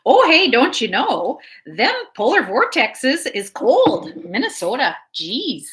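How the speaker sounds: slow, lightly voiced Minnesota accent; folksy Minnesota delivery, unhurried. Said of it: "say it again".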